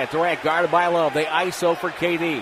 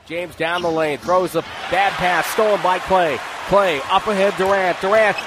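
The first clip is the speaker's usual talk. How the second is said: ordinary talk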